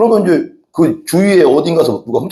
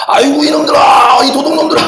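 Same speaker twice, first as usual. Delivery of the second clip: grandmother's furious wail; 11 semitones higher than usual. Retold or imitated. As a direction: cry out at the thieves in grief and rage. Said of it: "억울했으면 그렇게 막 했겠어요".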